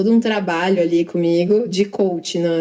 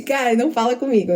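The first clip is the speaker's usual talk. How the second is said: tense focus; 4 semitones higher than usual. Retold or imitated. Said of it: "É, tipo assim".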